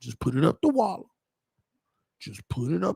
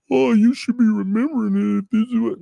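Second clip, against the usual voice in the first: higher put-on scolding voice; mock nagging critic; 6 semitones higher, 4 dB louder than usual. Commentator imitates viewers correcting his pronunciation, mock nagging. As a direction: mimic a nitpicking viewer.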